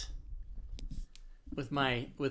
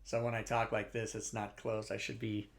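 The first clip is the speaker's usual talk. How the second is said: softer, leaning back away from the mic; far from the mic; 4 semitones lower, 6 dB quieter than usual. Shown as a demonstration. Streamer showing his leaned-back mic sound. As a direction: talk from back in the chair. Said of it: "leaning back in my chair like this".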